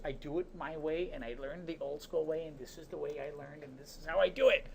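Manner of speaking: lightly voiced stubborn coworker; a hint of a set-in-his-ways old pro; stubborn old-timer. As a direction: coworker Ed brushing off the teasing, mildly stubborn. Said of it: "And he goes".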